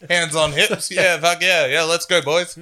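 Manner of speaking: loud cocky bro cheer; frat bro. Pretend. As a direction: pump up the boys like a jock. Owner celebrating on the field.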